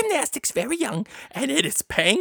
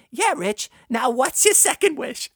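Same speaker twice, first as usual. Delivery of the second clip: genie; 5 dB louder than usual. Acted. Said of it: "The genie replied".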